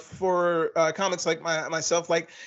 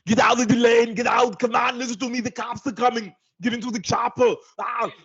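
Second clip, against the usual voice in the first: Arnold Schwarzenegger yelling; 5 semitones higher than usual. Acted. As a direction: bark orders like a GPS gone to war. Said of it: "that's just Arnold yelling at you".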